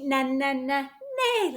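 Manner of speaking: soft little neighs; quiet mock whinny; horse neigh. Shown as a demonstration. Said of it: "Can you neigh like a horse?".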